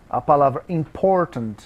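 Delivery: important, with the stress on por; im-POR-tant, second syllable stressed. Shown as a demonstration. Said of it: "o acento é no por".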